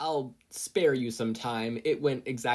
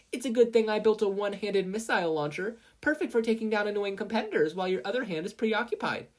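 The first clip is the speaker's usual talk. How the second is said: high, loud, smug ad voice; gleeful sales pitch; 11 semitones higher, 4 dB louder than usual. Acted. Mei advertising her launcher mid-fight, gleefully. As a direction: advertise the weapon with glee.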